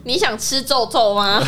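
put-on baby talk. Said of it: "讲叠字".

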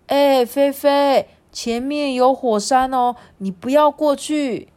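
warning a friend. Acted. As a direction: call out a caution to a friend. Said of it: "就提醒菲菲说". (提醒同伴的语气)

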